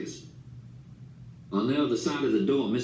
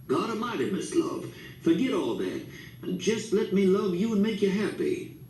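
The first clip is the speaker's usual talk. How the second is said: angry whisper; 8 semitones higher than usual. A narrator's reading. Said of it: "His whispered voice was angry".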